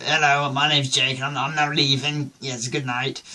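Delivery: mock-posh English farewell; lightly put-on posh politeness; posh accent. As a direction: imitate your tipsy, upper-class self. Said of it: "still talking poshly".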